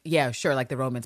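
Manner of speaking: low, noncommittal going-along; mock vague agreement. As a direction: imitate someone agreeing without a clue. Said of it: "I feel like Abbott nods".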